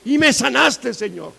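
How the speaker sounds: impassioned psalm quotation; psalmist crying out. Acted. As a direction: proclaim it up to God. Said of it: "Decía el salmista".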